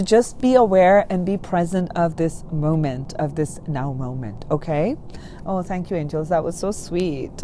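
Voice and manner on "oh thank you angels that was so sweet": moved. Real, not acted. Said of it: "making me very emotional".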